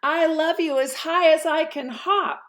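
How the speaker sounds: high, giggly little hare; laughing little hare. Acted. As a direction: bounce the words with a laugh. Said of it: "laughed Little Nut Brown Hair".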